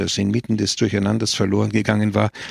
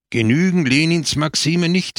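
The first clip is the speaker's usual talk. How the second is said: hissed angrily, pitched higher; 6 semitones higher than usual. A narrator's reading. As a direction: spit the words out through the teeth. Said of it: "zischte Pepone". (wütend gezischt)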